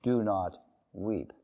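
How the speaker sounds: "Do not weep" said softly and slowly, tender falling end; gentle command. Shown as a demonstration. Preacher voices Jesus softly comforting the grieving mother. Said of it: "the reason Jesus said".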